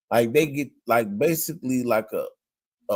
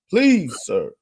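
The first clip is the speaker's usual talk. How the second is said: higher-pitched mock plea; retold pleading; 6 semitones higher than usual. Retelling a woman begging an officer for her life, imitated pleading. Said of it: "she's pleading for her life".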